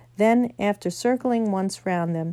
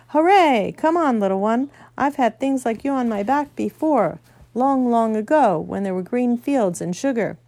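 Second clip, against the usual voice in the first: delighted horse; 3 semitones higher, 4 dB louder than usual. Acted. Fledge delighted to carry Diggory.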